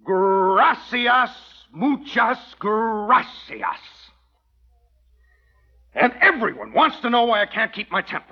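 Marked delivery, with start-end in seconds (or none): 0.0-3.8 sarcastic thanks. Acted. Sarcastic thanks after refusal.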